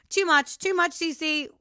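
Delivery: loud, teasing scold of herself; mock self-scolding. Real, not acted. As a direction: tell yourself off, playfully.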